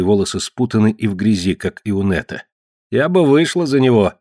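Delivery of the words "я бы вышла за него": put-on higher, dull young woman; a worn girl admiring the stranger; Marge's voice. Marge to Ned about the captive, a higher dull voice.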